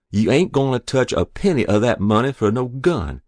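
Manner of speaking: high, exasperated telling-off; scolding. A narrator's reading. Mother guarding the school money, scolding. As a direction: wave him away crossly.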